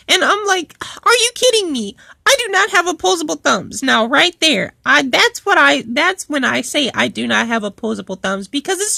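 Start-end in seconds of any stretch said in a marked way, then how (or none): 1.0-3.8 indignant retort. Retold or imitated. Acted indignant retort to coworker.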